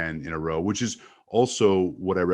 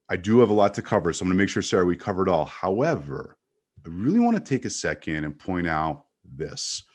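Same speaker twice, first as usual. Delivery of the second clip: brisk start, then slowing with pauses to make the point; playing with pace. Shown as a demonstration. Coach demonstrating varied pace to Sarah, quick then deliberate. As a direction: move quickly, then hold back before the last word. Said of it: "if you play with the pace".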